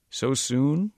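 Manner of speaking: put-on high, surprised old man; a frail old man caught off guard. A narrator's reading.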